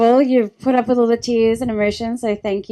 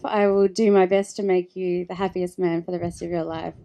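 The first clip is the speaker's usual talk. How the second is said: softer, choked-up close to the bride's vows; emotional, voice softening; 4 semitones lower, 5 dB quieter than usual. Real, not acted. Bride to husband George at the wedding, softly emotional. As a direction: let the emotion pull the voice down and soft. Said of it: "I'm getting emotional".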